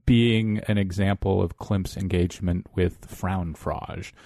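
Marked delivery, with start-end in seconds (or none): 3.1-4.1 attempted German pronunciation; horrible German accent. Interviewer names Klimt's engagement in German, poor German accent. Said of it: "that's my horrible German accent".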